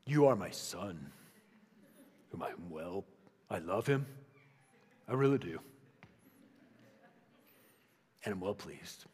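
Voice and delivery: mock-solemn God with a deep booming voice. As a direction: boom it out like a distant stern deity. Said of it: "deep booming voice".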